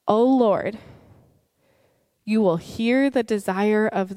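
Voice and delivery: steady, solemn reading voice; scripture reading. Acted. Pastor reading Psalm ten to the congregation, solemn. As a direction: read the psalm to the congregation with gravity.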